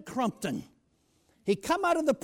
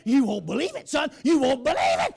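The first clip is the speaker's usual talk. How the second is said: loud, overexcited exclaiming; captain beside himself with news, loud; 5 dB louder than usual. Retold or imitated. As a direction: blurt it out, barely containing yourself. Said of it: "He was beside himself".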